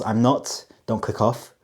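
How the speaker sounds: normal talking voice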